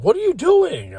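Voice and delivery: mock panicked cry, very high-pitched; frantic panic. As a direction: imitate someone frantic, voice shooting way up. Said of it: "in a frantic, like, panic".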